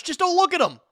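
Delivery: high squealing outburst; playful shriek. Real, not acted. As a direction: yelp it high and loud. Hiding cards from chat.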